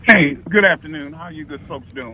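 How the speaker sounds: echoey speakerphone call; talking on speakerphone with echo; phone line echo. Real, not acted. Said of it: "if I sound a little echoey".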